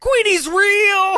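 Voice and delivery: very high, loud, drawn-out yell; excited reveal shout. Acted. Host bursts out with the surprise ending, high loud shout. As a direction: shout out the twist, stretching it.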